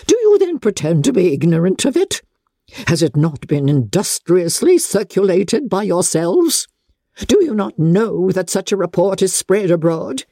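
a hint of a proud aristocrat; haughty Lady Catherine. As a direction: talk down to her from a height.

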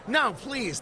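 high-pitched mom voice; mom impression. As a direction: play his mother pleading. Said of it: "That's my mother at a Sunday dinner".

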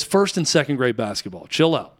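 calm coach. Retold or imitated. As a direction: settle the angry mom down gently. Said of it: "our coach is very calm".

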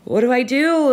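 high, loud panicked question; retold freak-out. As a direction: re-enact a panicked plea for help. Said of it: "completely freaking out".

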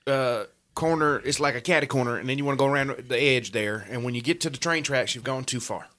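put-on Alabama accent. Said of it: "you just been talking too fast".

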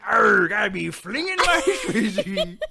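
loud, high, pirate-like Australian; bad Australian accent. Host mocking co-host's Australian accent, loud and laughing. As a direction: botch Australian into a pirate growl. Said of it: "Can you do an Australian accent?".

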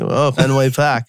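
put-on teasing Boston accent, Park without its r; mock Boston accent. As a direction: make fun of a Boston accent. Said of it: "making fun of Boston fans".

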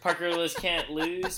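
drawn-out "Parker Lewis Can't Lose" with a laugh; slow, laughing emphasis. Shown as a demonstration. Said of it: "slow laughing emphasis on title".

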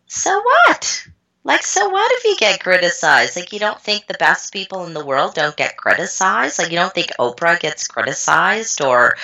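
high, emphatic so what pep talk; defiant so what. Retold or imitated. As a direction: shrug off criticism boldly. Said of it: "it was so powerful to say".

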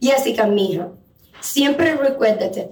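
imitating a grandmother's thick Cuban accent; a hint of a Cuban grandmother. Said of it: "in her thick Cuban accent".

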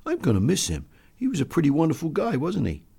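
gently wistful; grieving, respectful. Acted. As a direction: reminisce with mild sorrow. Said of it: "grieved one of his enlisted men in a low, respectful voice".

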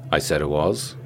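usual speaking voice

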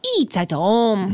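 slow Irish mimicry drifting toward Asian; slow, off-target mock accent, a little Asian; botched accent, vaguely Asian. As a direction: draw it out in a muddled Asian-sounding accent. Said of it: "Now it's a little Asian".

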